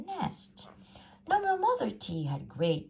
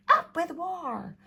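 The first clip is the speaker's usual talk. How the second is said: a high, louder slow chant; shouting; 13 semitones higher, 6 dB louder, slower than usual. A narrator's reading. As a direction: shout it as a war cry. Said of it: "and they shouted".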